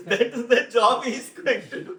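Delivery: mocking relatives. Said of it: "So they are introducing me saying".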